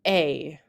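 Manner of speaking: "A" said as the French é sound. Shown as a demonstration. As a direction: say "A" like the vowel of e with acute accent. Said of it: "It sounds like".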